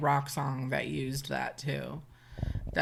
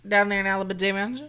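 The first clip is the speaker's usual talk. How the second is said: a hammed-up Southern echo; mock Southern accent; 3 semitones higher, 7 dB louder than usual. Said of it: "we're doing a real bad job of doing a Southern accent".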